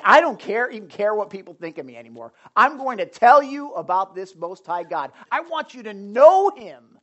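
loud, eager king bursting with news; excited convert. Acted. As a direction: blurt it out, can't hold back the joy. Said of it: "He's like".

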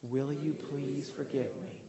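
slow, gentle and earnest; slow sincere request. Shown as a demonstration. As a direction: lead the room through it slowly. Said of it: "Say it with me".

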